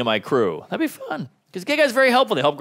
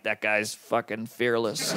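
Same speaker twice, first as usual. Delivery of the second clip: awed hush; 4 semitones lower, 8 dB quieter, slower than usual. Retold or imitated. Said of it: "I'm like".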